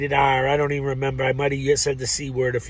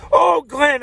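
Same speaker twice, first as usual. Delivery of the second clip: sudden recall; 13 semitones higher, 8 dB louder than usual. Real, not acted. Suddenly remembering, calls to Glenn.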